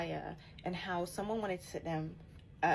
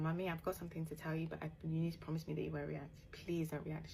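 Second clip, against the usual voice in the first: quiet plea; 6 dB quieter than usual. Retold or imitated. Pleading quietly with mum.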